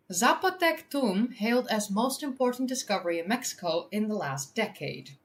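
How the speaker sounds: clear, lifted headline reading; article read-aloud. Real, not acted.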